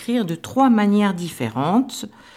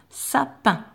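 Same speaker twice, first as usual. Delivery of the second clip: sapin said slowly and clearly for dictation; dictation word; 6 semitones higher than usual. Shown as a demonstration. Teacher dictating sapin to pupils, clear and careful. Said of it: "on écrit maintenant un mot de deux syllabes".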